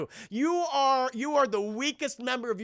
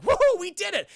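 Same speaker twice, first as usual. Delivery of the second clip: high, louder gloating cheer; mock cheer; 11 semitones higher, 5 dB louder than usual. Charlie Brown celebrating the captured T-Rex, high mock cheer. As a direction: cheer like a smug hunter boss. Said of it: "He's like".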